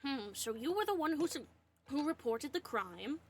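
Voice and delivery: talking while choking on water; words strained by choking. Real, not acted. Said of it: "Sorry, I'm choking on water".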